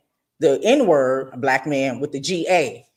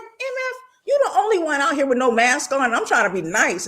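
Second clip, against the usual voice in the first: mock cussing out; 10 semitones higher than usual. Retold cussing out the man.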